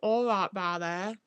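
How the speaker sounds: badly faked Norfolk accent; attempted Norfolk accent. Streamer unsure of Norfolk accents tries one, botched Norfolk accent. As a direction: have a garbled stab at a Norfolk accent. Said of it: "are they the ones that are a bit like".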